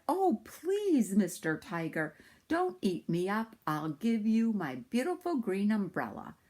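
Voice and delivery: a lightly voiced begging little boy; pleading boy. Little Sambo begs the second tiger, lightly pleading.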